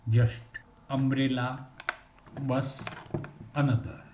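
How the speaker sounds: "umbrella, bus, another" with a short u, clearly separated; short u drill. Shown as a demonstration. Teacher modelling the short u for students, careful drill. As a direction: say each word with a clipped short u.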